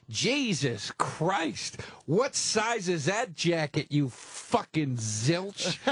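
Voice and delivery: slow, drawn-out mock insult; dummy George mocking. Dummy mocking the big guy in the front row, slow. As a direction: stretch each word out to roast the guy.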